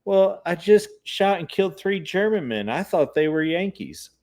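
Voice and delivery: high, wailing retold lament; crying woman. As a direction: wail it through tears, half-mocking. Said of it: "what are you crying about".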